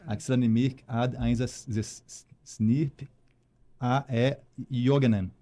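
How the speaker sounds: sentence read backwards, slow and halting; backwards speech. Shown as a demonstration. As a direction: reverse the phrase syllable by syllable. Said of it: "Menegói é a princesinha da criminalística". (fala ao contrário)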